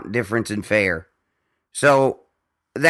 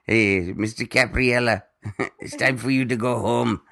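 put-on Indian accent. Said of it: "Sachin's dad used to call me all the time".

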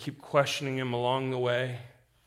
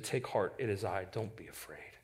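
much softer, hushed comfort; gentle reassurance; 7 semitones lower, 11 dB quieter than usual. Acted. Jesus comforting terrified disciples, soft and hushed. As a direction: soothe frightened disciples softly.

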